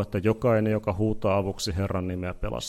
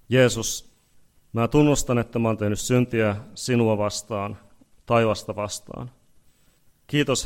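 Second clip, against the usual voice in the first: a preacher leading a sinner's prayer; led prayer. Acted. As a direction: pray it aloud for the people to repeat. Leads congregation in prayer.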